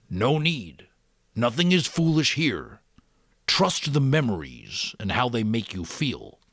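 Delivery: put-on old Giver voice. A narrator's reading. Giver voiced in read story.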